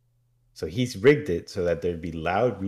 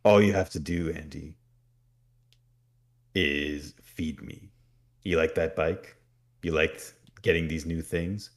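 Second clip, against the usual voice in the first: demon voice. Retold or imitated. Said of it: "He says".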